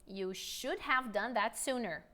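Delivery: slow, careful repeat; deliberate teacher pacing. Shown as a demonstration. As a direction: say it again slowly for them.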